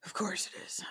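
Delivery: dry unvoiced aside; whispered wry comment; sarcastic mutter. Real, not acted. Wry reply to poncho price.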